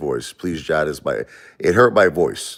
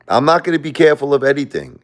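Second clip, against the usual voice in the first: laughing defiance; 8 semitones higher, 4 dB louder than usual. Real, not acted. To viewers about grief and God, laughing defiance. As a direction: laugh through a defiant vow, pitched higher and louder.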